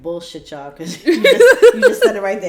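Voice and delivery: laughing hard while voicing the waiter; laughing through quote. Retelling waiter's words to friends, laughing loudly.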